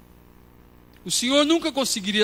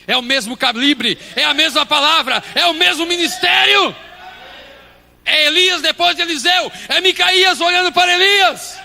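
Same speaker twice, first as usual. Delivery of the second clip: building sermon cry; 12 semitones higher, 10 dB louder than usual. Acted. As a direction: climb from speech to loud, high shouting. Preaching builds up a list. (pregação que sobe até o grito)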